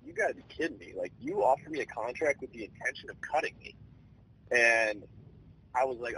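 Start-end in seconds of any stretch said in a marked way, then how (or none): 0.0-3.8 pissed off. Retold or imitated. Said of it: "I'm kinda pissed".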